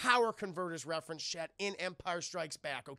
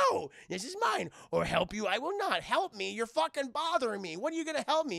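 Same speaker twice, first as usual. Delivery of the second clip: raised, higher-pitched mock annoyance; irritated outburst; 5 semitones higher, 4 dB louder than usual. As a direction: act out being pestered and fed up. Luke irritated, retold quarrel.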